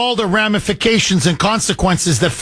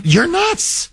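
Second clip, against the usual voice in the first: higher, punchy mock verdict; blunt grown-up; 10 semitones higher than usual. Host repeats the grown-up's verdict, high and punchy. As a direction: snap it like the only adult present. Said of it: "Where's the one that says".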